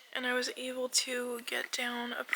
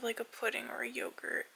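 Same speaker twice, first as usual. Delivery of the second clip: whispering. Real, not acted.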